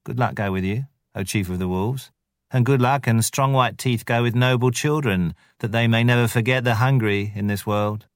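wheedling, lightly voiced jackal; whining jackal. Tabaqui the jackal whining flattery at the wolves. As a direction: fawn and whine like a jackal. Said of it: "crossed the threshold and whined".

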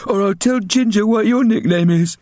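put-on high, loud threatening boy; teasing big brother. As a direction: threaten her with a smirk. Milo threatening.

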